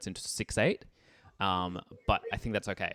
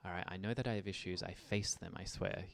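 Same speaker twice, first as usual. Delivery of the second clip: casual, easy run through the lyric; relaxed lyric read; 6 dB quieter than usual. Shown as a demonstration. Teacher showing students a relaxed read of the lyric. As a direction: shrug it off and speak it loosely. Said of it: "you go".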